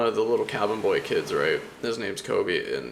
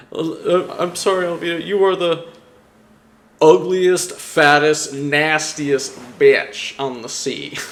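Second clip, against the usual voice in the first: higher, louder, slowing into a yelled insult; shouted insult; 6 semitones higher, 8 dB louder, slower than usual. Retold or imitated. Cabin boy insulting the pirate captain, in a loud, high, slowing yell. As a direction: hurl each insult louder and slower.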